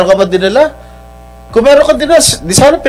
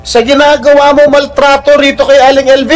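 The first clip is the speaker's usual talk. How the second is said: heated, raised accusing voice, higher pitched; raised angry voice; 3 semitones higher than usual. Real, not acted. Senator angrily berating an accused employer, raised voice. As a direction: press the witness hard, voice climbing. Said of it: "uh, raising my voice".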